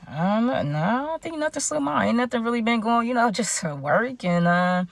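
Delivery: imitating a cornered, uneasy mumbler; nervous stalling. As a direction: act evasive, fumbling for an answer. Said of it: "My nerves was everywhere".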